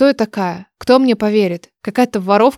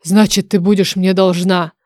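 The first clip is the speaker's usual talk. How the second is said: bargaining dragon oracle. Acted. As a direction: propose a deal with weight. Oracle sets terms.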